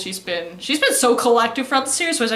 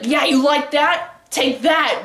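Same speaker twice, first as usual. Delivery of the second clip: higher, louder, drawn-out hammed-up jeer; mock attacker's taunt; 4 semitones higher, 5 dB louder, slower than usual. Attacker taunting the cheater while stabbing, mock aggressive. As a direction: taunt like an anime attacker mid-blow.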